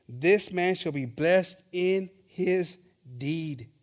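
slow, deliberate Bible reading; solemn King James reading; scripture reading. Acted. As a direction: read it slowly, like holy text. Reads verse twenty-five.

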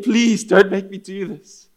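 loud, slow imitation of begging; mock pleading. Friend begging once the tables turn, mock pleading. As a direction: draw out a hammed-up plea. Mocker now begs not to translate.

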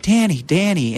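imitating a friend's soothing call; calming voice. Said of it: "in that voice, that calming voice".

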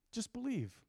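almost whisper the invitation; soft urging. Real, not acted. Preacher urging the church to believe, soft and hushed.

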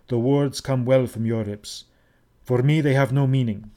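ordinary delivery, nothing marked

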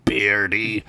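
slow, low hushing voice; a hidden stranger hissing at them slowly; a villager in the bushes warns Ugla. Acted. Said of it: "a voice said from the bushes".

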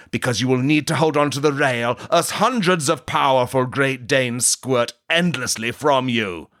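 hammed-up grandiose anime sage; pompous JoJo-style pronouncement; booming arrogant alien overlord. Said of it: "watching a lot of the Bizarre Adventures of JoJo".

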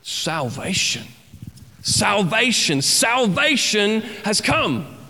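rising hope, slowly; joyful shout. Pretend. Preacher voicing rescued joy, mild jubilant build. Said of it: "it became".

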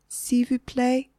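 high, slow, smiling plea; hopeful smile. A narrator's reading. Margaret to three glaring waitresses, hopeful polite plea. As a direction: ask sweetly and hopefully. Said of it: "said with a hopeful smile".

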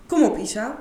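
self pep talk. Acted. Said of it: "sprak ik mezelf vermannend toe".

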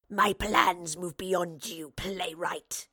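slow, snarling monster voice; wraith's snarl. A narrator's reading. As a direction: snarl it slowly as a menacing wraith. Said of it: "the wraith snarled".

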